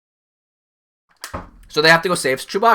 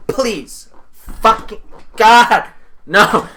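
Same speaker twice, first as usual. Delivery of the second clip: exasperated pilot; 3 dB louder, much slower than usual. Pretend. Pilot begging two Force users to stop, exasperated. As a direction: plead with the idiots, stretching the words. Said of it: "imagining the pilot in there".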